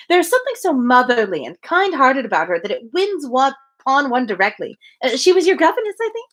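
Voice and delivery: lightly voiced, eager society lady; gushing Mrs Elton. Reader voicing Mrs Elton to her friend, lightly gushing. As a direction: chatter on brightly, pleased with herself.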